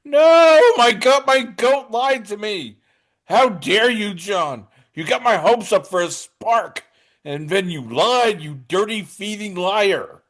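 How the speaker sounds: hammed-up high, loud wail of betrayal that slows on the insults; mock-grieve a hero who lied to you; mock heartbroken wail. Teasing his co-host, hammed-up heartbroken fan's wail. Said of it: "from afar going".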